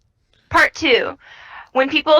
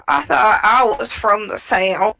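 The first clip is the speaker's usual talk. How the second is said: slow Southern drawl; country Southern accent; 3 semitones lower, slower than usual. Real, not acted. Puzzled speaker to co-host about their origins, country Southern accent. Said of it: "southern accent changed again".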